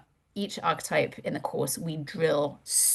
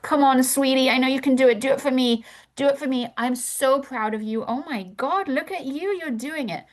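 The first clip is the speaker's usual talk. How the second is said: seductress; 7 semitones higher than usual.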